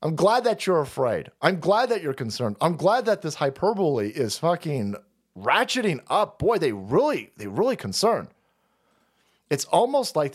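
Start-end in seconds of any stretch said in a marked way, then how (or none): none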